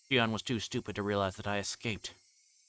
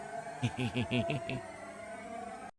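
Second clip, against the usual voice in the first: crazed giggle; 3 semitones higher, 4 dB quieter than usual. Acted. Mad laugh to dead Satoshi.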